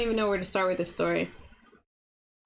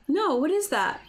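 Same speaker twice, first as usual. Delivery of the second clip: mock clueless reply; 6 semitones higher than usual. Friend's clueless reply quoted.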